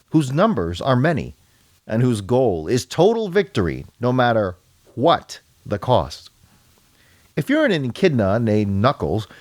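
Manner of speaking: dramatic comic-book intro read; story narration. A narrator's reading. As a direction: read it out as a measured heroic prologue.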